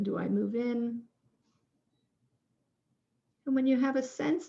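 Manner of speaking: unhurried guiding voice with long pauses; measured prompts, pausing after each question; guided reflection. Real, not acted. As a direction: lead listeners gently through a reflection, leaving space. Leads a guided reflection exercise.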